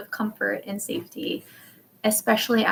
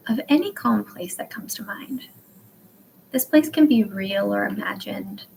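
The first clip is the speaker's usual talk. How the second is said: measured meditation guide, slowing toward the end; guided meditation. Acted. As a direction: ease them into imagining, with long pauses. Leads a calm place meditation.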